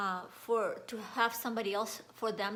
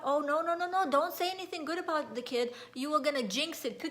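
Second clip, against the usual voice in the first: higher, hurried-sounding superstitious objection; mock alarm at a jinx; alarmed protest; 4 semitones higher than usual. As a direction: imitate a parent fending off praise. Voices superstitious Russian parents warding praise.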